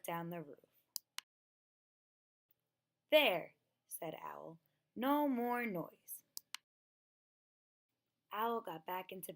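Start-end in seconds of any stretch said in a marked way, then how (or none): 3.1-3.5 a loud, satisfied "There"; loud, pleased declaration; triumphant. Acted. Owl triumphant after removing roof. 5.0-6.2 slow, louder, drawn out; deliberate, slow, firm; slow and satisfied. Acted. Owl satisfied after removing roof.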